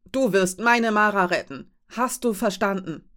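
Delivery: a mother yelling her demand at the captain; loud and insistent, rising at the start; desperate shout. Acted. Mother shouting at the captain to save her child, loud. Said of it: "schrie sie Sindra an".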